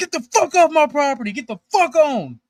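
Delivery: acted, furious shrieking holler, high and loud. Speaker retells shouting at police from the porch, retelling a yell. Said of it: "we're sitting on the porch yelling".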